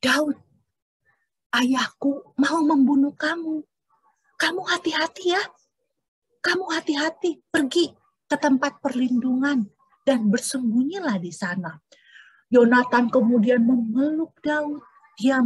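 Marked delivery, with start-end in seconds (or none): 0.1-11.8 urgent friendly warning. Acted. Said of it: "Didengerin ya, apa yang kata Yonatan".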